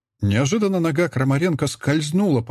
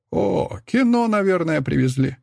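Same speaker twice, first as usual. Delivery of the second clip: chuckling; 6 semitones higher than usual. A narrator's reading. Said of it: "хохотнул Олейников".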